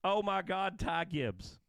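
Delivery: retold scream. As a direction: blurt the wrong name out, excited. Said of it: "I scream out".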